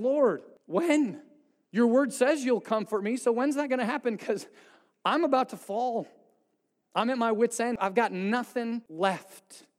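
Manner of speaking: pleading demand; urgent pleading. Retold or imitated. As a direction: press the Lord for an answer, voice lifted. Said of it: "he's pleading, interrogating the Lord".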